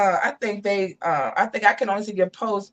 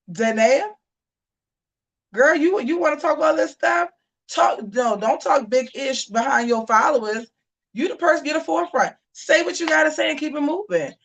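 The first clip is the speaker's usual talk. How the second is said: sassy call-out; 5 semitones higher than usual. Acted. Telling Danae off directly.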